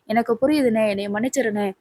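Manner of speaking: softly voiced, subdued apology. Pallavan apologising to his scolding elder brother, soft and subdued. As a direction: say sorry quietly, backing down.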